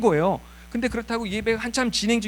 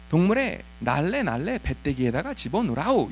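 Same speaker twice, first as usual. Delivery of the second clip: Pyongyang dialect; 3 semitones lower than usual. Retold or imitated. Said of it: "조금 더 천천히 하면은".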